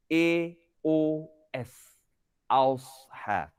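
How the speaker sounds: Ausha with the a rounded toward O, slowly; o-coloured vowel. Shown as a demonstration. Teacher showing the O sound in Ausha. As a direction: spell A, O, S slowly, then say Ausha. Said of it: "tapi kita baca ma aus".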